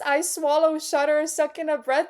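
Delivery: high, excited quote from the book; excited rereading. Real, not acted. Reader gushing over her favourite scene, excited. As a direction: read it worked up, pitched well up. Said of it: "I'm getting all excited about it".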